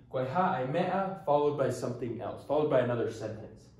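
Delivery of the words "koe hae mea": Koe hae mea, said slowly, syllable by syllable; slow demonstration. Shown as a demonstration. Teacher showing students a common Tongan phrase, slowly. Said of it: "So you'll see".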